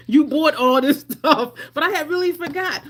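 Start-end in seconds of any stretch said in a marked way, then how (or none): 0.1-1.5 louder, slow teasing scold; mock scolding. Self scolding for forgotten gifts, slow loud mock scold. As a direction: tell yourself off, drawn out.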